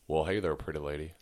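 Texas accent like a famous singer's. Shown as a demonstration. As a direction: try Texas, landing near a famous singer's style. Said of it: "was that a famous singer?".

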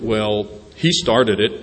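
mopey. Retold or imitated. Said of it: "there was some mopey kind of".

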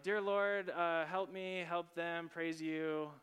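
lightly chanted, run-through prayer list; mock rote prayer. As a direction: imitate someone praying by rote. Mimics a perfunctory short prayer.

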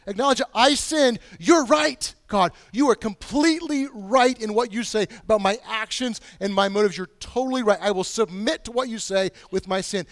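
impassioned loud confession to God; earnest admission. Retold or imitated. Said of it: "He's like".

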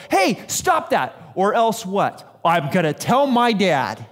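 put-on a kid standing up for a sibling; child's threat. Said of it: "and you go".

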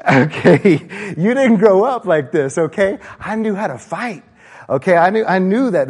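loud, high, hammed-up tough guy; mock fighting talk. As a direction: puff up like a brawler from the South.

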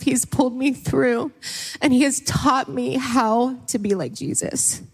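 speaking through real tears, slowed. Real, not acted. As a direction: push the words out while crying. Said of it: "so while I'm crying".

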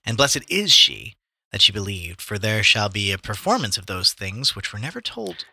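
measured, declamatory Bible reading; scripture reading. A narrator's reading. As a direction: read it out like scripture. Reads scripture aloud.

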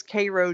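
"Cairo" as KAY-ro; first syllable of "Cairo" like "kay"; local pronunciation. Shown as a demonstration. Gives a local town's pronunciation.

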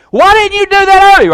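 high, loud and astonished; amazed coach. Retold or imitated. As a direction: marvel at the kid's sudden play.

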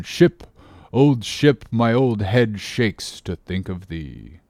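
put-on slow, grinding old-man mutter; a lightly voiced old captain brooding over signs; muttering like a worn-out coffee mill. Stubb overhears the carpenter muttering, slow and grinding. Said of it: "voice like an old worn-out coffee mill".

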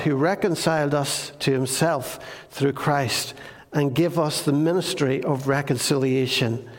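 measured, solemn Bible reading; scripture reading. Acted.

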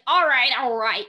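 half-hearted New York impression of the rat Pip; New York accent. Podcast host imitating Pip for co-hosts, mild mock New York accent. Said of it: "it's totally a New York accent".

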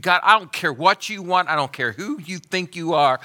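high, loud defiant taunt; mock rebellious sinner voice. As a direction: sneer it at God. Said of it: "you thumbed your nose at God and you said".

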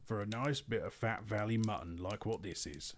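lightly voiced troll, pleased with his supper; a hint of a coarse troll talking with his mouth full. Troll William thanking Bill for mutton, lightly voiced.

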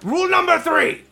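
announcing. Pretend. Announcing the next rule.

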